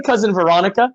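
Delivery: "Veronica" with an American "ah" vowel; English pronunciation. Shown as a demonstration. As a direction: say "Veronica" the English way, stressed open "ah". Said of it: "So I say cousin Veronica".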